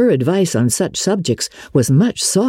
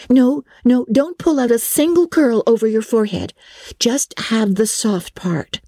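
put-on higher, busy young friend fussing over hair; girl dressing her friend, lightly voiced higher; 7 semitones higher than usual. A narrator's reading. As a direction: fuss over your friend like a little stylist. Diana dressing Anne.

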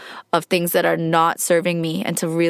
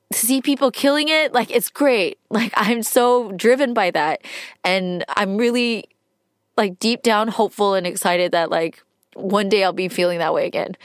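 tearful hope. Real, not acted. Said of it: "sorry, I'm crying".

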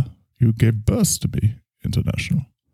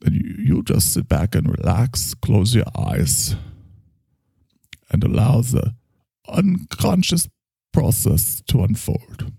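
soothing therapist voice; 4 semitones higher than usual. Acted. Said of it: "we're not even on the couch anymore".

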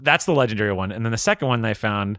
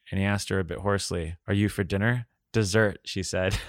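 measured, lower audiobook read; composed storytelling, softer at sentence ends; story narration; 3 semitones lower, 3 dB quieter than usual. A narrator's reading. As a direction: read the love scene evenly aloud. Reads novel passage aloud.

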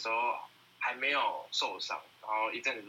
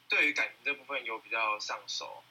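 usual speaking voice

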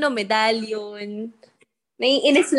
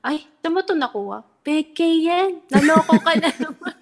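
higher, louder laughing taunt; laughing mockery; 6 semitones higher, 4 dB louder than usual. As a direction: tease him through laughter that it's fake. (tumatawang panunukso, mas mataas at malakas)

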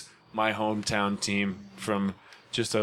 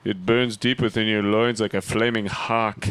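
cologne ad voice; 2 semitones lower than usual. Pretend. Mock cologne ad.

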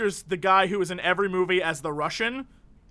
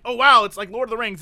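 mock excited; 7 dB louder than usual. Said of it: "and like".

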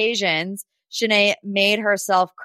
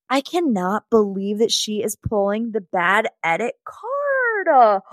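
slow, drawn-out exasperation; theatrical, wailing disbelief; exasperated disbelief. Real, not acted. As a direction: drag out the last word in dismay. Exasperated rant at contestant's excuse.

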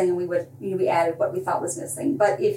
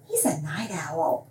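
knowing code phrase; 4 semitones lower, 5 dB quieter, slower than usual. Shown as a demonstration. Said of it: "which means he does weird things".

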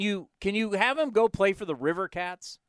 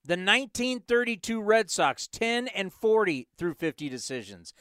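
reluctant reading. Shown as a demonstration. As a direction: read it out like a chore. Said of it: "Fine, I'll read it".

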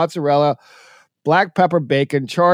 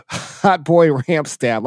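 savoring the names; much slower than usual. Real, not acted. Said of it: "These names are great".

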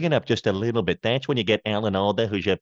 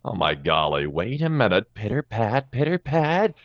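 halting, musing, low mumble with odd stops; a lightly voiced Goldblum; Jeff Goldblum impression; 3 semitones lower than usual. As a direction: ramble like a charming eccentric.

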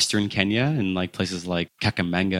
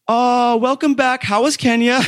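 cheeky currency sellers; 5 dB louder than usual. Retold or imitated. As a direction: greet him like an old friend who's been caught out. Currency sellers greet him mockingly.

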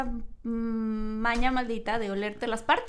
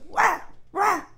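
dog bark imitation; 7 semitones higher than usual. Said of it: "un perro".

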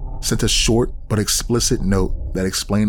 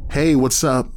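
forced casual; 5 semitones higher than usual. Acted. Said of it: "trying to sound casual".

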